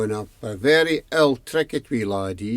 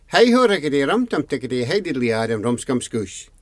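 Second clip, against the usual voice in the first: rattled-off name; 2 semitones higher, faster than usual. Acted. Mother recites the long silly name.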